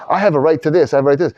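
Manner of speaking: mock entitlement. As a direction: lightly claim your rights. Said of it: "It doesn't say".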